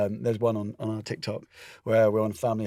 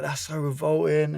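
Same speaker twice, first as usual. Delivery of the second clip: disgusted; 5 semitones higher than usual. Retold or imitated. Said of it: "She's like".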